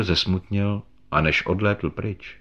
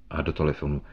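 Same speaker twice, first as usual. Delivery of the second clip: ordinary delivery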